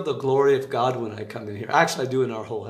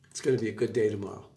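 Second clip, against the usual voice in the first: quoting the Lord; 4 semitones lower, 6 dB quieter, much faster than usual. Retold or imitated. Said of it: "and he said".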